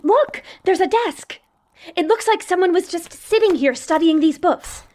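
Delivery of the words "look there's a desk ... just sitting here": excited. Acted.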